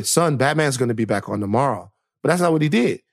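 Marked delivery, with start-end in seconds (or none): 0.0-1.9 gentle dad. Pretend. Imagining his dad comforting him, gentle. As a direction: soothe the little boy. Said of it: "He should have let me".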